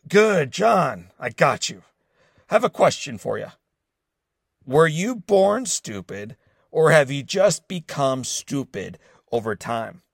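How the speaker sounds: a hint of a grumpy barking caller; angry advisor mocking the intern on the phone, mild grumpy bark. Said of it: "A deep, grumpy voice barked back".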